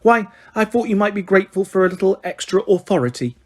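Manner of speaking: lightly voiced simpering toad; sickly sweet. Umbridge needling McGonagall, sickly sweet. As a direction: purr it with false kindness. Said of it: "still smiling her sickly smile".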